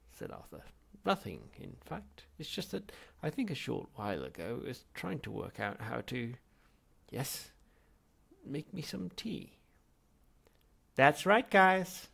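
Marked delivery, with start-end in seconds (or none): 1.0-9.6 sheepish. Acted. Arthur admitting the tea problem. 10.9-12.1 loud, high, cheery computer voice; chirpy computer. Acted. The ship's computer sings out cheerily to the crew. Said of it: "the computer sang out suddenly".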